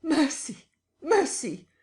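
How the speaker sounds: high, loud pleading scream; terrified cry; wild scream. A narrator's reading. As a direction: beg for mercy under the blows. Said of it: "a wild scream of".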